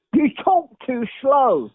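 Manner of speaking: the director's note, slow and drawn out; slow, emphatic repeat. Retold or imitated.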